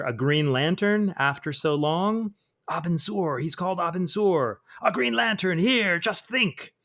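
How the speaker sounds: rising, overlapping cries of wonder; mock screaming voices. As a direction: voices shrieking with glee over a Green Lantern. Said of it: "So all these voices are screaming".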